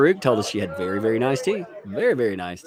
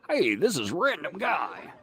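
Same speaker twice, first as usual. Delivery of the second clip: miming an interviewee; 6 semitones higher, 3 dB quieter, slower than usual. Acted. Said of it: "I wanna mime his interview".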